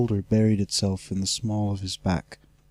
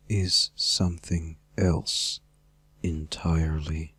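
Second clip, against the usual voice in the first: menacing dragon villain; 3 semitones lower than usual. Acted. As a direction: hold every word back like a coiled threat. Villain dragon Cyranox speaks.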